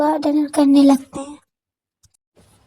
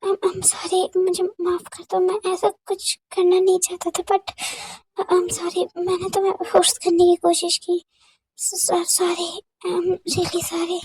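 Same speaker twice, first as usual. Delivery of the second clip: stammering apology; 4 semitones higher, 4 dB quieter than usual. Acted. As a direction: plead for forgiveness gently. A rapper apologizing. (धीमी, पछतावे भरी माफ़ी)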